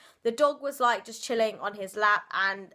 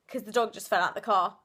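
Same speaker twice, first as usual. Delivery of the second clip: offhand casual; 3 semitones lower, faster than usual. Retold or imitated. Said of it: "you said it so casually".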